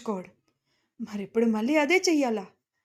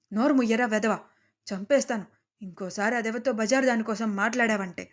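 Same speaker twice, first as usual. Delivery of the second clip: angry shout. Acted. Father-in-law yelling at his cheating son in rage. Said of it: "అని గట్టిగా అరిచారు ఆవేశంగా".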